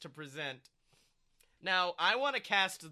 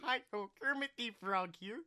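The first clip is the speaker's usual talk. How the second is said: Kermit the Frog; 4 dB quieter than usual. Retold or imitated. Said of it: "I want to play him as Kermit the Frog".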